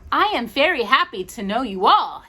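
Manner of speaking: a touch of kindly doll voice. Acted. Raggedy Andy greeting the dollies, lightly kindly. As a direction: greet new friends kindly. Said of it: "he said in a voice as kindly as Raggedy Ann's".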